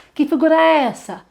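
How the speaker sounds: pergunta aguda e animada, resposta lenta; voz de tia da escolinha; professora com crianças. Shown as a demonstration. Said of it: "professora mostrando figura". (professora animada com figura)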